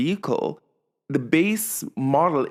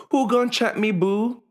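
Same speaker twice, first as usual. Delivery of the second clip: sassy high-pitched diva challenge; Portia impression; 8 semitones higher than usual. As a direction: fling it out like a reality-TV diva. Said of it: "In the words of, um, Portia, um, from Real Housewives".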